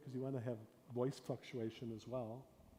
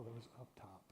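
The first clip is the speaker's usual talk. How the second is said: mild murmur; 10 dB quieter than usual. Retold or imitated. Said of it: "and then she, oh".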